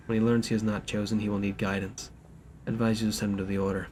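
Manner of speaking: formal letter read aloud. Acted.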